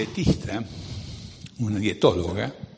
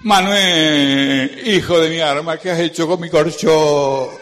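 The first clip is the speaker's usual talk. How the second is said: put-on louder old woman's lament, higher pitched; old grandmother; 5 semitones higher, 7 dB louder, slower than usual. Grandmother finds her ruined mattress, loud old woman's scold. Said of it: "viene la vieja y dice".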